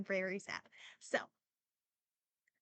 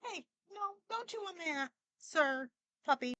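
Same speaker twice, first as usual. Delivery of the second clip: talking to a puppy; 7 semitones higher than usual. Real, not acted. Owner telling the puppy to stop chewing, high and gentle. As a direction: coax the puppy off the cord, sweetly.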